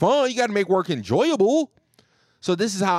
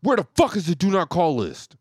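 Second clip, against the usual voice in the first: robber voice. Pretend. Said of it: "Ran into somebody's building and said".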